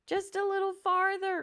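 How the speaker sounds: a sister cheering her brother along the branch; crying out. Acted. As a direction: call it up to him, urging him on. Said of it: "cried Annabelle".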